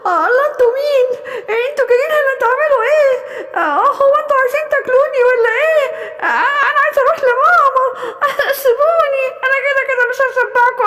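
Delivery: a trapped fawn begging to be let go; panicked pleading gazelle. Acted. Gazelle caught by hungry beasts.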